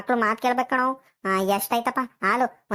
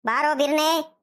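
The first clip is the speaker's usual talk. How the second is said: raised-pitch summoning call; 5 semitones higher than usual. Acted. Grandmother summoning her grandson to come quickly, calling out high. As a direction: call the child over from a distance. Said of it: "ಹಿಂಗ್ ಕೂಗಾಡ್ತಿದ್ಯಾ".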